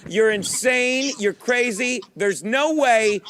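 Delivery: drawn-out mock dismissal; mock incredulous everyone. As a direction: play the whole world scoffing at him. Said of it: "I'm gonna say what everyone says to you".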